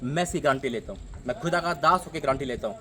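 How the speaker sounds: emphatic sermon in surging phrases; insistent preacher's cadence; fervent preaching. Real, not acted. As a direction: drive each example home, then settle into a firm promise. Preaches on giving.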